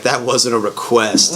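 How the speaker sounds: quietly menacing, drawn out; slow menacing quiet. Retold or imitated. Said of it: "He's like".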